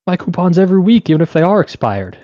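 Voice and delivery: mock indignant customer. Clerk mimics the customer insisting on expired coupons, mock indignant. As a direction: whine the demand like a huffy coupon lady.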